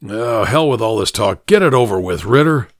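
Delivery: mildly exasperated, pushing to finish it; a touch of weary defiance; fed-up demand. Acted. Sick fugitive demands to be shot.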